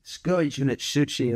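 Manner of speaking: lightly mocking Scottish jibe; imitated Scottish critics. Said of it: "so Scottish people say".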